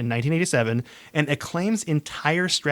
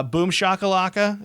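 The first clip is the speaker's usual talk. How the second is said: fighting game announcer; 4 semitones higher than usual. Retold or imitated. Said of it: "is another big thing they would say".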